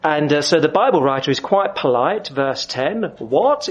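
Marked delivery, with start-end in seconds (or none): 3.2-3.7 exclaimed. A narrator's reading. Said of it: "exclaimed the king of Israel".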